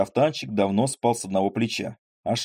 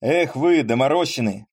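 loud, higher teasing whoop; gleeful exclamation; 4 semitones higher, 4 dB louder than usual. Acted. Поль exclaims at his passengers as the road softens. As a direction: crow at them with glee. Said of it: "воскликнул он снова".

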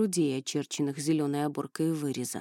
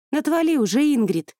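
angry snap; 8 semitones higher, 7 dB louder than usual. Acted. Narrator snaps at rival.

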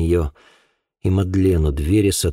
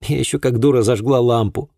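higher voice with a touch of misery; mournful self-reproach; 6 semitones higher, 4 dB louder than usual. A narrator's reading. Girl blaming herself for lighting the lamp, mildly mournful. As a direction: add it ruefully, blaming yourself. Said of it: "тоскливо добавила девушка".

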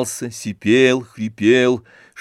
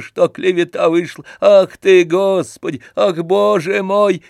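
put-on old servant rejoicing; 5 semitones higher, 5 dB louder than usual. A narrator's reading. Old servant Zakhar congratulating Stolz, loud wheezing joy. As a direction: bless the master with bowing delight. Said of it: "твердил он".

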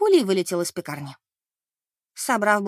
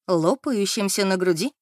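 ironic question. Acted. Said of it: "укоризненно посмотрела".

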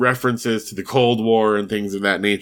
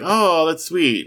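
lightly imitated coo, higher and drawn out; slow, higher-pitched mock "aww" reaction; retold cooing; 6 semitones higher, slower than usual. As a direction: coo it lightly, as if quoting someone touched. Family cooing at sweet Andy.

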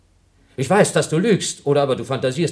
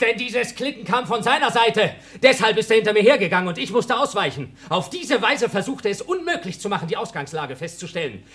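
higher, with a mocking laugh through it; scornful laughing; 8 semitones higher than usual. Blob dictates his version for the tape, laughing. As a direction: gloat as you dictate for the record.

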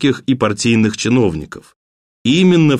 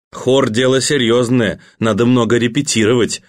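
ordinary delivery, nothing marked

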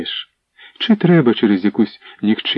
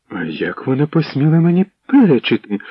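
higher, rising outrage at being defied; indignant outrage; 5 semitones higher than usual. Acted. Princess Anna outraged at the servant girl's defiance, higher indignant demand. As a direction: demand it like a spoilt princess stamping her foot. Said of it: "тупнула ногою Анна".

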